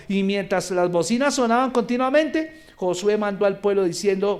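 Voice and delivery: ordinary talk, nothing marked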